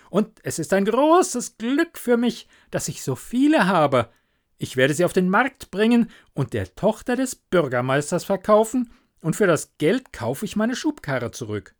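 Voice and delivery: lightly voiced happy Hans; eager little Hans. Hans telling the miller his market plan, eager.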